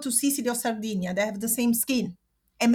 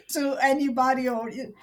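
laughing through tears; 3 dB louder than usual. Real, not acted. Laughing while upset.

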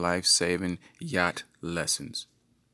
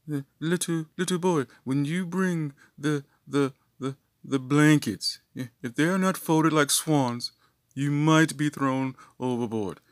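higher-pitched, measured instructor voice; mock instructor; 7 semitones higher than usual. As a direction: lecture the little servants with mock authority. Brother lecturing young boat servants.

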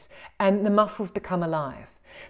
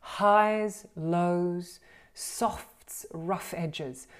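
varied demo; 4 dB quieter, much slower than usual. Shown as a demonstration. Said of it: "like an orchestra".

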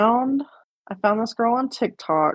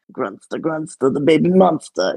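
imitating an uncle's put-on movie voice; lightly put-on voice, quoting like the uncle; Uncle Jerry. Niece shows cohost how uncle said it, lightly imitated voice. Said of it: "like, made his voice".

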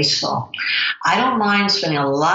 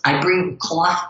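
slow New Jersey "cloth" with a long open aw; a New Jersey accent slipping out on "cloth"; drawn-out New Jersey "I bring cloth"; much slower than usual. Real, not acted. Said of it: "that's my New Jersey accent coming out".

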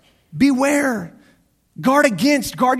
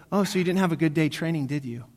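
softer, falling away at the end; lightly voiced wife; 3 semitones lower, 6 dB quieter than usual. Wife to husband home from dog training, lightly imitated, low and soft. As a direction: imitate a knowing wife, quietly.

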